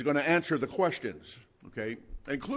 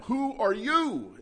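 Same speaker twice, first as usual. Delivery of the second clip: "you" hit much higher and stretched out slow; emphatic you; 10 semitones higher, slower than usual. Retold or imitated. Preacher voicing the sarcastic question, stressing "you". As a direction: scorn him as a nobody with "you". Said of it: "is how they said it".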